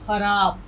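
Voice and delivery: خراب with a clear throaty خ; خراب said with the rasping x sound; correct pronunciation. Shown as a demonstration. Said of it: "بندی لگائیں گے تو یہ بن جائے گا خے". (خراب، خ کی صاف آواز کے ساتھ)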